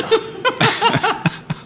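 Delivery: high burst of laughter. Real, not acted. Host laughs at his own garlic joke, high giggle.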